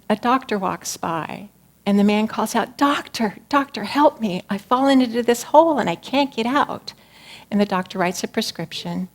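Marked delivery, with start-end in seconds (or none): 2.8-6.9 calling for help. Acted. Man in hole calls out.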